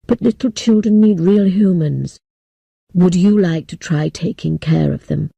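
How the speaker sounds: put-on low, grave elderly man; solemn old leader breaking bad news. Old man offering work.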